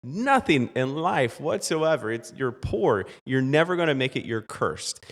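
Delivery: a touch of I-told-you-so taunting; mocking villagers.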